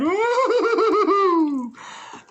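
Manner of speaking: a high, loud burst of delighted laughter; a shrieking laugh of disbelief; high squealing laugh. Real, not acted. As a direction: squeal with overwhelmed glee. Overwhelmed by the card.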